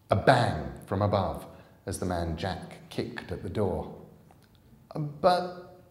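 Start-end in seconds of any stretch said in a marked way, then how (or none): 4.9-5.8 put-on girl who trusted Mister Frost; disbelieving girl. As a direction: drag it out, unable to believe.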